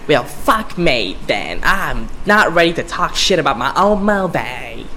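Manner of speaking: slow, lightly voiced brash villainess; botched New York accent slipping into British; Harley Quinn. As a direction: stretch the words in a rough Harley-style impression. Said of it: "That was a shitty Harley Quinn impression".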